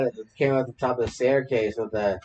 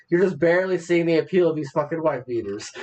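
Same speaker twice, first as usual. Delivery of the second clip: laughing; 2 semitones higher than usual. Retold or imitated. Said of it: "He's just like".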